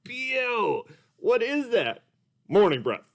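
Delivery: high, slow cartoon puppet voice; Mister Dolphin puppet. Puppet greets the kids as Mister Dolphin, high and slow. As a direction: play a sleepy, sing-song puppet. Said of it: "Mister Dolphin".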